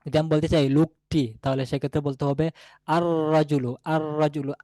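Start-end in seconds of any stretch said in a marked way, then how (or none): 2.9-4.5 "আর রাজুলু" with a long rolled r; lam merged into ra. Shown as a demonstration. Teacher naming the definite man, "আর রাজুলু" with lam silent. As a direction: roll and hold the r in "আর রাজুলু". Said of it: "লামের কোনো উচ্চারণ থাকবে না".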